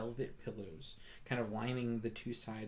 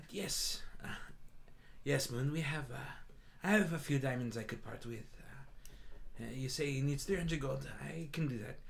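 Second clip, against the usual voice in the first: a hint of a deeper cat-woman voice with a slight accent; lightly voiced second Tabaxi, barely lower; Song's deeper voice; 2 semitones higher than usual. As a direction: Song answers Moon from behind the curtain, lightly lower. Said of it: "a little bit deeper of a voice".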